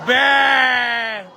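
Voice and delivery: short shouted "Bang!" call. Real, not acted. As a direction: yell it as the ball drops. Calling a made shot.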